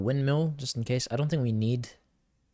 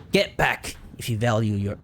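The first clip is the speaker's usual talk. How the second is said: put-on Irish-Scottish accent; slower than usual. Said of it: "That's a horrible Irish, Scottish accent".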